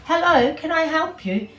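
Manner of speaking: be a gentle sheep. Acted. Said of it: "said Missus Sheep".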